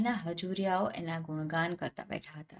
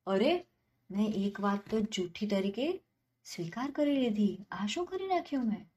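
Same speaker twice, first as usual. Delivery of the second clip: startled dismay; 3 semitones higher than usual. Acted. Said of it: "જમીનદાર ચોંક્યો".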